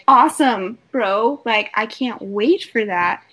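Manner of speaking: mock enthusiasm, slowing at the end; sarcastic "awesome bro" to a bragging guy. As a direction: fake excitement for a bro's promise. Her sarcastic reply.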